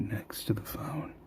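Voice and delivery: leaning in to whisper. Real, not acted. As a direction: mouth close to the phone, whispering. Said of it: "sorry, I'm gonna whisper".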